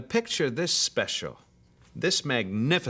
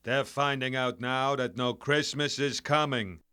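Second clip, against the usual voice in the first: A crooner impression. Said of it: "the chairman of the board".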